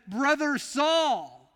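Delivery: slow, drawn out, gently; tender greeting. Acted. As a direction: Ananias greets his enemy as family. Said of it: "this is how he says it".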